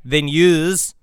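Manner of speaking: careful, halting Australian accent drill; trying out Australian vowels; Australian accent warm-up. Shown as a demonstration. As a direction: practise an Australian accent word by word. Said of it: "before doing the Australian accent".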